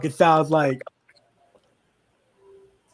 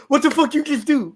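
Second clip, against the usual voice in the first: higher-pitched mock indignation; retold angry outburst; 8 semitones higher than usual. Cheetah confronts Sal after being touched awake, mock anger. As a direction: demand an answer, mildly outraged. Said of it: "all fucking angry and shit".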